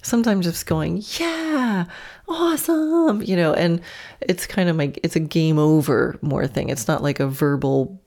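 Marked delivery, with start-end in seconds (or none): 1.2-3.2 much higher, beaming praise; bright high praise for a horse. Shown as a demonstration. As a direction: cheer the horse on, game over. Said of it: "the tone of voice that I use".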